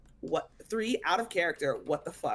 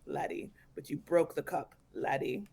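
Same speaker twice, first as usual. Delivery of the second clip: put-on Irish accent; 2 semitones lower than usual. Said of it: "why the Irish accent?".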